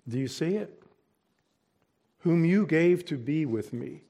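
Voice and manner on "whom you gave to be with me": "you" lifted and leaned on; stress on you. Shown as a demonstration. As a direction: point the blame at "you" in "Whom you gave". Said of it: "We could say it this way".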